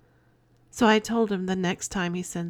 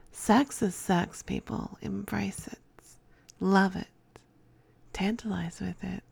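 sultry whisper. Real, not acted. Urging listeners, drifting into whisper.

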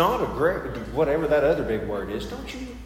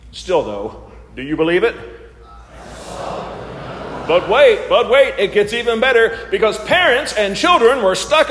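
game show host; 3 semitones higher, 5 dB louder than usual. Pretend. Hosts the sermon game show.

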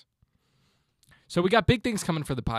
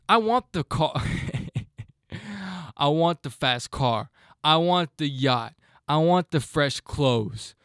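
slow, drawn-out boasting voice; imitating a DJ. Quoting a DJ to listeners, slow bragging drawl. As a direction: savor each want like a mogul. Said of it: "This is a DJ that I'm quoting here".

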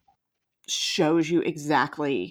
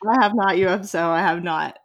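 mock childish bickering; 5 dB louder than usual. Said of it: "that just made me laugh".

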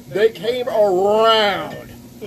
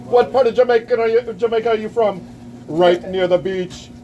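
mock Jamaican accent; 4 semitones higher than usual. Host hamming it up for the camera in a mock Jamaican accent. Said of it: "when he talks like this stupid shit".

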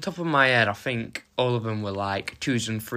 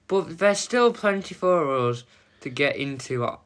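festive, lilting opening monologue; lively scripted host patter; scripted podcast intro; 3 semitones higher than usual. Acted. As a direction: read out a cheery welcome to listeners.

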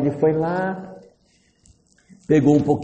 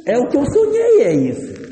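high, excited gushing; enraptured man; 9 semitones higher than usual. Acted. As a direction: act out a man overjoyed at his dream come true. Homem encantado ao ver a mulher. (encantamento exagerado, voz bem aguda)

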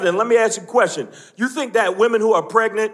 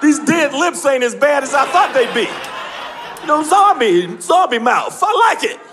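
delighted squeal; 4 semitones higher than usual. Retold or imitated. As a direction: sound pleasantly surprised. Victim enjoying zombie kiss.

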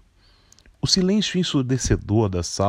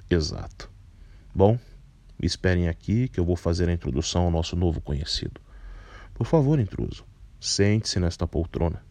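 put-on a lightly lowered, composed older man; low, measured voice; 3 semitones lower, 3 dB quieter than usual. Carpinteiro speaks.

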